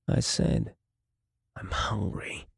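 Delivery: hushed, hissing menacing snarl. Acted. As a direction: snarl it out in a creepy whisper. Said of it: "he snarled".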